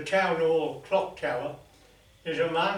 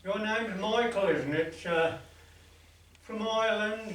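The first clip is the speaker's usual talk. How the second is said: higher, slightly raised calling voice; mock shout; 5 semitones higher than usual. Priest shouting up to the man on the tower, mild mock shout. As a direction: call up to someone high above, lightly. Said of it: "priest shouted up to him".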